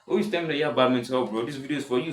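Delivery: quick, lightly teasing jab; mock comeback. Second imagined teasing comeback.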